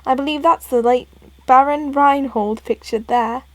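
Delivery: lightly put-on British accent. Professor Layton showing Luke a portrait, mild British accent. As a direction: speak as a politely British gentleman. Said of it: "Professor Layton got a British accent".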